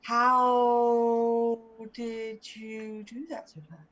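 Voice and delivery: long drawn-out, incredulous "how"; slow, astonished question; amazed. Acted. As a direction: stretch the first word in disbelief. Amazed at the carriage's quick return.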